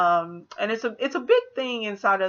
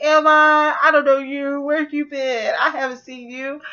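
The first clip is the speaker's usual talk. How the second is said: higher, louder child voice, mock cold; a lightly voiced sulky kid rejecting him; 6 semitones higher, 5 dB louder than usual. Charles Wallace brushing off his father, mock cold. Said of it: "Charles Wallace was like".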